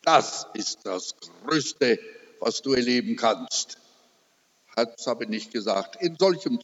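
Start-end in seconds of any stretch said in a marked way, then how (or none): 0.0-3.8 tender. Retold or imitated. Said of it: "Ich hätte ihr doch sagen sollen".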